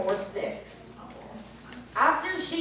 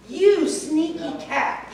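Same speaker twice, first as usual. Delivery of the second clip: slow, mildly louder witch scold; mild yell; 4 semitones higher, 4 dB louder, slower than usual. Acted. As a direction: scold the cat with mild anger. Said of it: "yelled Bony Legs".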